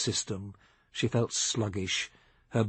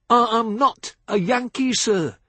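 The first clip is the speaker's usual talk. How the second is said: louder, higher drawled Southern put-down; 10 semitones higher, 6 dB louder than usual. A narrator's reading. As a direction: lay it down easy and firm. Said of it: "Billy Joe repeated".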